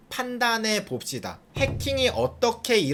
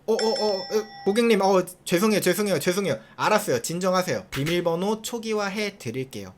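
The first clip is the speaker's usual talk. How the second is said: mock-panicked apologizing clerk; flustered. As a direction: stammer out apologies like a caught-off-guard clerk. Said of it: "그랬더니 직원이 당황합니다". (당황한 직원 흉내)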